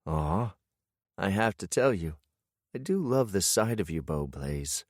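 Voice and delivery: soft, fond wife's voice, fading quietly; smiling voice. Acted. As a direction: let her smile come through the phone. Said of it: "I can hear the smile in her voice".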